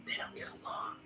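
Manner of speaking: hushed, whispered aside; confidential whisper. Real, not acted. Author letting listeners in on a spoiler, whispered.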